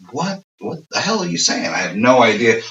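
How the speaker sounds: puzzled disbelief, lightly hammed up; mock bewilderment. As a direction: act out a totally lost listener. Acts out confused English listeners.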